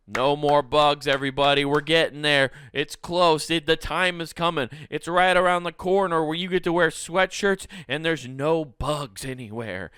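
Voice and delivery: rally the crowd with exaggerated excitement; mock rallying cry. Comedian promising everybody a bug-free fall, loud mock proclamation.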